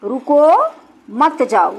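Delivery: रुको held with a rise, then a pause before a falling मत जाओ; pause after रुको. Shown as a demonstration. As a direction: slowly set रुको apart from मत जाओ. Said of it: "जैसे मैं लिखती हूँ".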